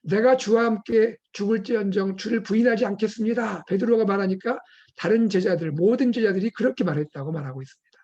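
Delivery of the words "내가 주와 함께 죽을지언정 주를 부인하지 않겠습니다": higher, insistent pledge; acted-out bold promise; boastful vow. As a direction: declare it with mock-heroic certainty. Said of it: "함께 장담을 하고 있는".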